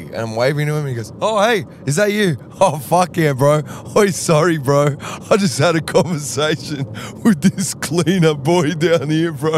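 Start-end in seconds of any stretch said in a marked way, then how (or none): 1.2-2.4 much higher excited caricature; bright surprised bloke; Michael's voice. Retold or imitated. Impersonating Michael. 2.6-9.5 higher, louder bro voice; apologetic laid-back bro; Michael's voice. Retold or imitated. Impersonating Michael.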